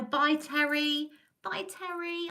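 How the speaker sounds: high, drawn-out sing-out goodbye; affectionate farewell. Real, not acted. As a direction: call a fond goodbye, pitched well up. Calling goodbye to a departing viewer.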